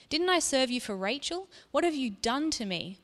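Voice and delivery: angry. Acted. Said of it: "he shouted".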